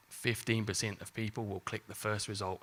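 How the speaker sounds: a hint of an Australian accent; Australian lilt creeping in unintended; slipped into Australian. Real, not acted. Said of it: "I don't know why I've gone Australian".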